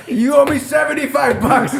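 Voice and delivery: laughing mock shout. Teller mocks the neighbor's demand, laughing. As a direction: shout the punchline through laughter. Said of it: "neighbor's punchline, laughing shout".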